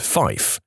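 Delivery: "fife" said with f in place of v, for five; radio pronunciation. Retold or imitated. Pilots mocking radio talk, "fife" pronounced with f for v. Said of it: "people who say".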